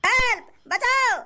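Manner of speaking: high, slow pleading cries for help; hammed-up terrified victim; mock panic cry. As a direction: shriek for help as if being robbed. Victim screams for help again.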